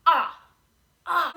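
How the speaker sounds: a loud, wide-open "Ah"; demo ah sound. Shown as a demonstration. Teacher modelling the ah sound for the class. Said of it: "we want our mouth to be open wide".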